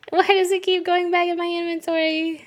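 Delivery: high, loud frustrated outcry; exasperated shout. Real, not acted. Streamer yelling at items returning to inventory, loud and high. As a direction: yell at the game in disbelief.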